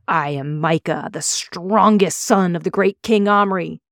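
slow, loud proclamation; speech to the villagers from dragonback; addressing the crowd. A narrator's reading. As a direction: announce yourself like a prince. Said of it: "He addressed the crowd".

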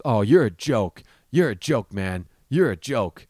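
loud, mock-belligerent jeer; drunk taunt. Drunk guy insulting the comic, jeering taunt. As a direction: imitate a drunk heckler, punching each repeat. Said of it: "argument with a drunk person".

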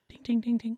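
soft chiming ding ding; chisel sound effect. Shown as a demonstration. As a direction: tap out magic chisel dings. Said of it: "it has to make magic chisel sounds".

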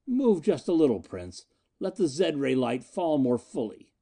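gloating. Acted. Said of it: "Gloating like a great gray monster".

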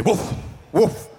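quick puffed "woof, woof"; whooshing mock ignition noise; imitated woof of flames. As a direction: mimic a fire flaring up with two woofs. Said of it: "It will say".

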